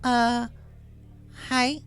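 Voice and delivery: put-on a caught kid saying hi; sheepish filly. A narrator's reading. Caught filly greets the bartender, sheepish. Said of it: "smiled sheepishly".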